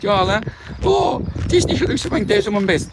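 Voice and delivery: mock her feeble excuse in a high voice; whiny excuse. Vlogger mimicking a failing customer, whiny high voice. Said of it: "dat jij zegt".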